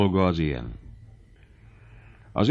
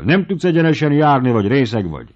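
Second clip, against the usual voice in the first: loud, much higher furious yell; raging threat; 6 semitones higher, 5 dB louder than usual. Acted. The baron rages at Bubenyik for breaking the glass, shouting. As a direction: blow up at the clumsy servant.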